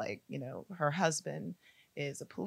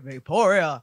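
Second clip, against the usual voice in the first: Vaporia voice; 12 dB louder than usual. Acted. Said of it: "Oh, here we go".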